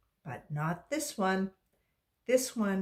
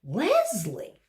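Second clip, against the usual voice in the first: exclaimed; 6 dB louder than usual. Acted. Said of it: "exclaimed Missus Jules".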